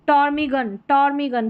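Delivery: टॉर्मिगन starting straight on t; silent P. Shown as a demonstration. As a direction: say टॉर्मिगन with no p before the t. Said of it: "तो पी silent है".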